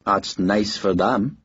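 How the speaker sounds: dry amused reply, slow; wry slow amusement. Acted. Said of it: "Harper was amused".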